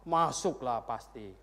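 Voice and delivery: imitated woman answering without doubt; breezily certain. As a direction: stretch it with easy certainty. Acted woman's sure answer.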